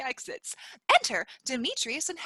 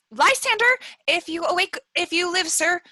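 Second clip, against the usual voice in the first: louder, higher call to wake him; 3 semitones higher, 4 dB louder than usual. Acted. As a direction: call him awake urgently. Helena calling a sleeper.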